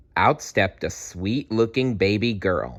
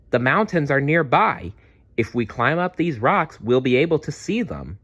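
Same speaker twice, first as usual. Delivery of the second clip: encouraging; 6 semitones higher than usual. Acted. Maya cheers Dazzle on.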